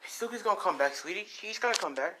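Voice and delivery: high, lightly voiced mother; reassuring mom. Mom to child about missing Izuku, reassuring.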